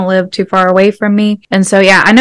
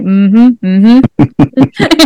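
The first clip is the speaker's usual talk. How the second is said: rising, agreeing "mm-hmm"; affirming hum; 3 semitones higher than usual. Retold or imitated. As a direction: hum along approvingly, higher the second time. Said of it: "I felt myself, you know, being like".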